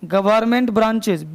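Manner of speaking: very slow dictation pace; teacher dictating grammar rule. Shown as a demonstration. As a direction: drag each word for students to write. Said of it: "teacher dictating slowly".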